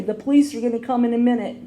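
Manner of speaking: a mild retold yell; yelling down the hallway. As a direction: call the warning down the hall, quickly. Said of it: "I yelled down the hallway".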